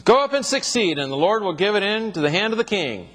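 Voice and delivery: high-pitched mock prophecy, lightly sarcastic; sarcastic encouragement starting high. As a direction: mockingly echo the yes-men prophets, pitch lifted. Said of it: "he's being very sarcastic here".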